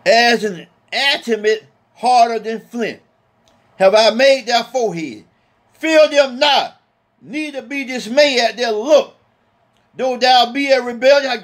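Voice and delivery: slow, measured King James cadence; solemn scripture reading. Acted. Preacher reading Ezekiel aloud to his congregation, slow and solemn. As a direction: intone the verse with weight.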